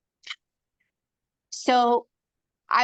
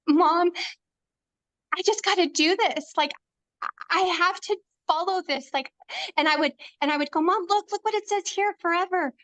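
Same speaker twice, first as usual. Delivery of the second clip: higher, fast, mock urgent pleading to mom; retold pleading; 6 semitones higher, faster than usual. Retelling how she begged her mama at the table, higher and fast pleading. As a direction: imitate her past self begging mom to look, higher and quick. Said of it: "she would see me wail and weep at the table going".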